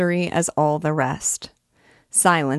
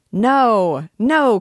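high, loud protest of students; rowdy students crying no; 6 semitones higher, 6 dB louder than usual. A narrator's reading. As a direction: shout them down, high and loud. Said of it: "cried the students".

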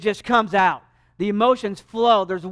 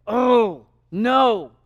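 loud, anguished groan; groaning with emotion; 2 semitones higher, 5 dB louder than usual. Shown as a demonstration. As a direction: groan the words out with great emotion. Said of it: "almost like a groaning with great emotion".

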